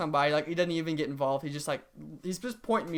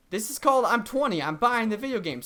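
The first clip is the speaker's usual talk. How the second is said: raised-pitch frustrated disbelief; exasperated retort; 5 semitones higher than usual. Retold or imitated. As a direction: protest like you can't believe the rule.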